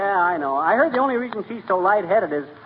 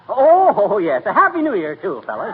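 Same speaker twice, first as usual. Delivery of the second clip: sudden eager reminder; 3 semitones higher, 5 dB louder than usual. Acted. McGee suddenly remembers New Year greeting.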